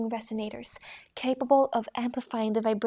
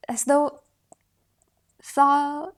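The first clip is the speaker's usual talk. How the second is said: rising question tone; 3 semitones higher, 7 dB louder, much slower than usual. Shown as a demonstration. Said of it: "as though looking for".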